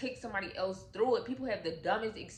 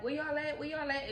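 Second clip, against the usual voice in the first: high call through the house; calling out for her family; 7 semitones higher, faster than usual. Retold or imitated.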